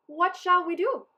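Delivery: high, anxious cry of many voices; frightened villagers asking; worried townsfolk. A narrator's reading.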